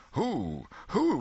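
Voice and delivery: second who leaps very high; twenty voices all asking at once; startled questions. Acted. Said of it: "from twenty voices".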